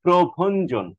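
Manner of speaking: প্রভঞ্জন with breathy bh, "pro-bhon-jon"; model aspirated pronunciation. Shown as a demonstration. Teacher insists on aspiration, careful pronunciation. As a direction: sound out প্রভঞ্জন with a full bh. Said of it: "মহাপ্রাণটা ঠিকভাবে".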